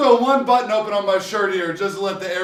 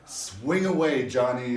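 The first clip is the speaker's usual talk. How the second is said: mock Mel Gibson; 9 semitones lower, 8 dB quieter, slower than usual. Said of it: "Mel Gibson says".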